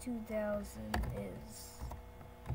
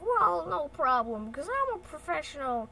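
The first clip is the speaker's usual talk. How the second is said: boastful surgeon; 2 semitones higher, 4 dB louder than usual. Acted.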